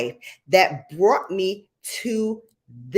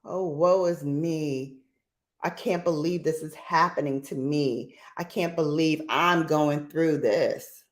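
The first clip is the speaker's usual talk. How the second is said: woe is me; 2 semitones lower than usual. Retold or imitated. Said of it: "I call that the".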